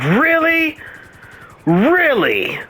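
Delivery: high, indignant imitation of the girlfriend; mock girlfriend voice. Boyfriend mimics girlfriend catching him gaming, mock indignant high voice. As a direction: squeak out her disbelief in a mock girlfriend voice.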